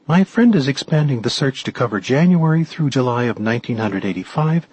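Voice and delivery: eager helper, lightly acted; lightly voiced Giselle. Voices Giselle reporting her search.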